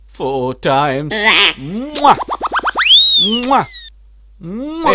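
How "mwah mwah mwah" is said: high, punchy "mwah"; exaggerated kiss noise. Telling of four times, exaggerated kiss noise. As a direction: smack out a big high kiss sound. Imitates loud kissing sounds.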